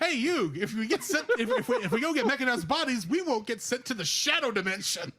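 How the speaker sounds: lightly voiced cartoon dub sidekick; mock-earnest anime buddy through amusement; Joey impression. Joey reasoning with his pal about the shadow dimension, light dub impression. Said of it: "I went to Yu-Gi-Oh!".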